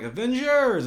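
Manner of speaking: high, loud mock rallying shout; shouted battle cry. Captain America rallying the troops, mock heroic shout. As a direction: bellow it like a hero calling the charge. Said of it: "Captain America's like".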